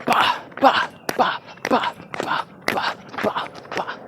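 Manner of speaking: airy whispered rhythm sounds; light breathy step beats. Shown as a demonstration. Teacher showing the smooth V four with whispered beats. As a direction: tap it out lightly, effortless. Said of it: "So you get this".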